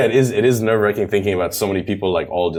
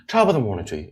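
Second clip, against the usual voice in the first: Irish lilt, mouth wide then narrowing; Irish accent; 4 dB quieter, faster than usual. Shown as a demonstration. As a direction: demonstrate a musical Irish accent. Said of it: "mouth opens up wide and then".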